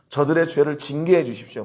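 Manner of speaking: mildly insistent plea for punishment; demanding prayer. Pretend. Imagined prayer asking God to punish them, mild insistence. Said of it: "이렇게 기도해야 될 것 같아요".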